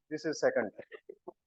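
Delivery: retold calm warning. Wife warning her husband a second time, quietly calm. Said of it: "my wife this time also calmly stood up".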